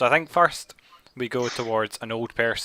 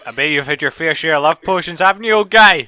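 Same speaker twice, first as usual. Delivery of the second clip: teasing; 6 semitones higher, 11 dB louder than usual. Acted. Teasing the old villager loudly.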